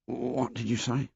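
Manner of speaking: soft whispered question; quiet whisper. A narrator's reading. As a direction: hush it back across the grass. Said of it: "Piggy whispered back".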